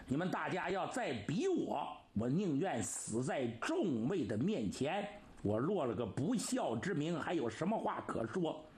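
agitated. Acted. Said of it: "秦王李世民是真急了".

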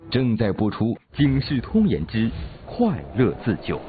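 programme announcer. Acted. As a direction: announce the programme with pointed questions.

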